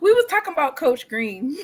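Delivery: laughing. Real, not acted. Still laughing at the joke.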